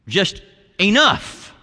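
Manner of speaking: mild shout. Acted. Preacher voicing the word of Jesus' return, mild shout. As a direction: lift it high and stretch it out. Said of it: "come back with a loud shout".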